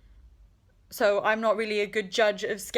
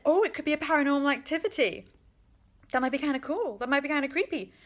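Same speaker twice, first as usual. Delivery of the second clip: mocking the character; 4 semitones higher than usual. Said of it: "She just said".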